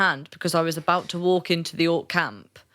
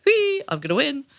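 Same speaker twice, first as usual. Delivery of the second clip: giddy excitement; 8 semitones higher than usual. Retold or imitated. 'Cause I was just like.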